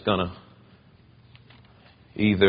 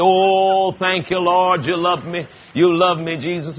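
excited thanks; 4 semitones higher than usual. Retold or imitated. Thanking Jesus for the rain on the window, excited. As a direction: shout praise at the storm. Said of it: "I said".

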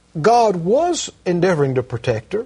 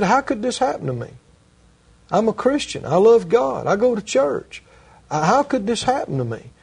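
higher, mildly distressed imitation of a bewildered believer; retold upset plea; 4 semitones higher than usual. Mugged woman to a prayer-line worker, mildly upset retold plea. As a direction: retell her upset protest, pitched up but not crying. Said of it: "And she's crying".

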